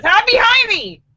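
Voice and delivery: high, slow and drawn out; little girl voice. Acted. Little girl telling the teacher her name, high and slow. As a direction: sing it out like a stubborn little girl.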